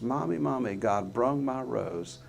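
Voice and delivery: put-on child's excited words. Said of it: "she said it just like that".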